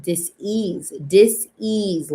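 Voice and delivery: "dis-ease" broken into dis and ease; dis-ease split apart. Shown as a demonstration. Explaining lack of ease in energy, dis-ease split in two. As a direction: separate dis from ease, each drawn out. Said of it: "lack of ease".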